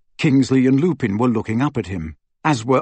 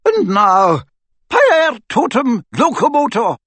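much higher, loud ringing spell; cried incantation; 10 semitones higher, 4 dB louder than usual. A narrator's reading. McGonagall crying out a spell to the statues, loud. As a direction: call the statues to life. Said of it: "cried Professor McGonagall".

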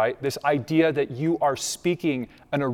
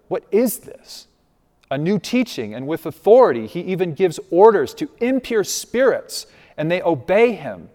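amazed crowd; 4 semitones higher, 5 dB louder than usual. Acted. Amazed crowd asking each other.

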